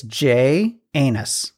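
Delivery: "J Anus" split slowly into letter J plus anus; joke pronunciation fix. Shown as a demonstration. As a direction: slowly separate "J Anus" into two words. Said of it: "I'm gonna fix it for you".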